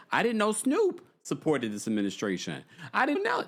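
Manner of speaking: lightly mimicked viewers, pitch climbing at the end; a touch of mock innocence, rising sharply; mock surprised viewers. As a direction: imitate clueless followers, last protest jumping high. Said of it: "some of you said".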